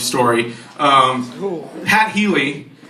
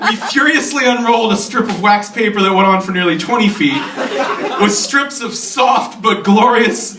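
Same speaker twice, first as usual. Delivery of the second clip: droll reading, pitched higher as the tale climaxes; Steve Metz; 5 semitones higher than usual. Retold or imitated. Reading the advisor's beloved bacon story to old friends, droll. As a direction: read out a tall tale with droll relish. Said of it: "Steve's voice, which is extremely droll".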